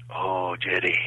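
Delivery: low, soft voiced director; confidential reply. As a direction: thank him quietly, between the two of you.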